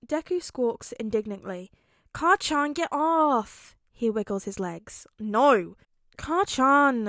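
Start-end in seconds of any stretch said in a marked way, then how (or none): 2.1-3.8 loud high indignant cry; indignant protest. A narrator's reading. Deku protests being sat on. 5.2-5.8 loud refusal. A narrator's reading. Katsuki refuses. 6.2-7.1 indignant squawk. A narrator's reading. Deku squawks.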